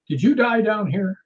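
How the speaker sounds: projecting a question into the dark; calling out. Real, not acted. Calling out to ghost in basement.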